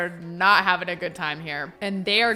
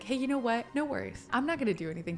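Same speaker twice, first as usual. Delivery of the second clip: soft, casual false comfort; fake reassurance; 3 semitones higher, 8 dB quieter, much faster than usual. Groom giving bride a false sense of security, soft reassurance. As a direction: lull her with a soft voice. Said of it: "Maybe he's faking it to her".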